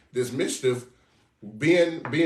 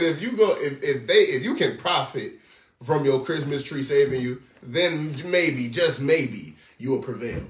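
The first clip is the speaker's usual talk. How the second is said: mocking Lord. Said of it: "the Lord is real life mocking you now".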